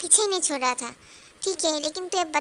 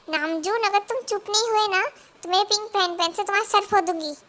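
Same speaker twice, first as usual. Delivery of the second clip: loud, higher scolding threat; angry threat; 4 semitones higher, 5 dB louder than usual. Acted. Wife threatens her teasing husband, angry and loud. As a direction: threaten him and mean it.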